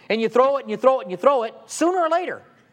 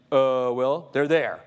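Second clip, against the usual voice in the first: caught-out stammer; 8 semitones lower, slower than usual. Retold or imitated.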